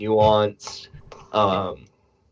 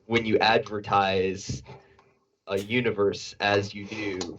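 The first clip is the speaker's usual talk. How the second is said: talking while eating; words round a bite of food; mouth full; 4 dB quieter than usual. Real, not acted. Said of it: "the speaker turning this into a fucking eating stream".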